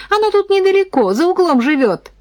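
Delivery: put-on high, quick teasing girl voice; giggly girl. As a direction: tease him in a giggly little girl voice. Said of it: "хихикнула Татьяна". (хихикающая девочка, высоко и быстро)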